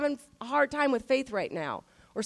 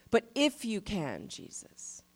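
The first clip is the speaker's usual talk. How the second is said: hesitant doubtful plea; 3 semitones lower, 7 dB quieter, slower than usual. Retold or imitated. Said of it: "He goes".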